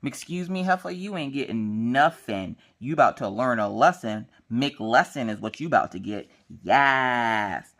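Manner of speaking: mock scolding with emphatic swagger; sassy inner rant. Mom telling off her daughter in her head, sassy. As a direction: play a sassy telling-off, words punched. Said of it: "the whole time in my head".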